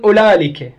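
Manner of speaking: أولالك with an L where the glottal stop would be; lam replacing hamza. Shown as a demonstration. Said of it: "مكان الهمزة يخلون لام".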